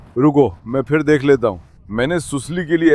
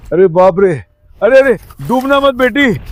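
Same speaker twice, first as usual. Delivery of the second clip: higher alarmed cry to the puppy; sudden real worry, higher pitched; 3 semitones higher than usual. Real, not acted. Owner sees the puppy sinking, alarmed cry.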